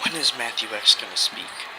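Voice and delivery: quiet, cold heel promo; menacing wrestler promo. Acted.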